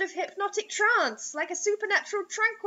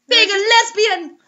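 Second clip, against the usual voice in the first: slow, louder, hammed-up horror; mock-dramatic punchline; 5 semitones higher, 10 dB louder, slower than usual. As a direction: land it like a campy shock twist.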